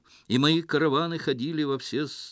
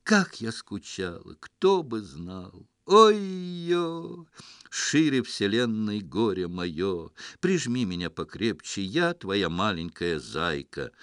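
overacted daughter; 4 dB louder, slower than usual. Man playing daughter reunites with father.

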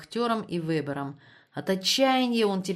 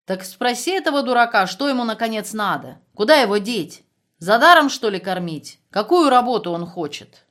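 loud exasperated shouting; angry; 3 semitones higher, 7 dB louder than usual. Acted. Commandant shouts in anger. (раздражённый крик)

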